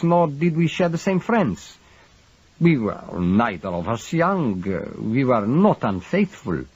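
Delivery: lightly voiced grieving husband; foreign husband. A narrator's reading. Stavros's voice held.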